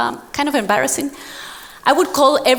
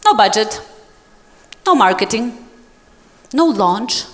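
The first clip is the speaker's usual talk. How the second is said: despairing inner voice; 7 semitones higher than usual. Retold or imitated. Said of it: "this is how I left the meeting".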